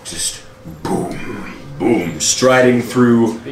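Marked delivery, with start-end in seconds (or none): 0.8-2.2 slow, drawn-out booming thuds; imitated giant footsteps. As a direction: sound out a giant's heavy steps. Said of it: "the sounds of giant footsteps".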